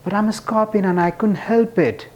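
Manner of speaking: a scorpion admitting it can't help itself; scorpion's sheepish excuse. Retold or imitated. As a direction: play the scorpion caught out but unrepentant. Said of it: "The scorpion's like".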